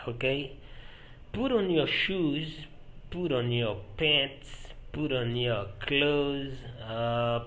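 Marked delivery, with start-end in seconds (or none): 1.3-6.5 slow, measured language-teacher delivery; drawn-out teaching pace; slow modelling. Shown as a demonstration. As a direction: say each phrase slowly for learners. Teacher models phrases for learners.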